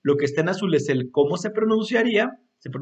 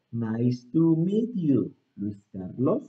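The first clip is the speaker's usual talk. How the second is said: more fluid; 4 semitones lower, slower than usual. Shown as a demonstration. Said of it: "fluido otra vez".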